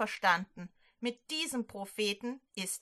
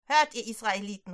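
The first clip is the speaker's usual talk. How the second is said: louder, fast call to the crowd; calling prophet; 4 dB louder, faster than usual. Acted. Elia calls out to the Israelites on the mountain, loud call. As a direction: call the people together from the mountain. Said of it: "ruft Elia".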